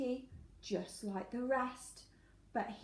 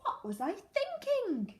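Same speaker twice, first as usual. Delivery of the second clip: anteater voice; 11 semitones higher than usual. Acted. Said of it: "said the anteater".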